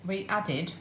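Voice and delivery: talking with chocolate in mouth; mouth full. Real, not acted. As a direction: speak round a mouthful of chocolate. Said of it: "I've got chocolate in my mouth".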